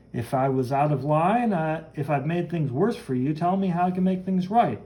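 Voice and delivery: lightly acted, animated storytelling; comic-book hero explaining. Hero reminds the woman he rescued her, lightly animated. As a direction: play an earnest hero recounting a rescue.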